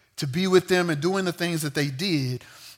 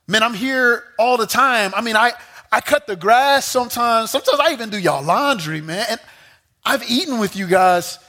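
indignant Adam; 4 semitones higher than usual. Retold or imitated. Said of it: "Adam says".

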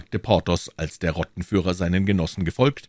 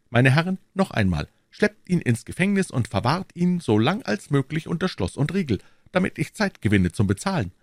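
high, scolding outburst; mock indignation; 9 semitones higher than usual. A narrator's reading. D'Artagnan handing the shopkeeper to guards, feigning indignation. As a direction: play outraged and order him off.

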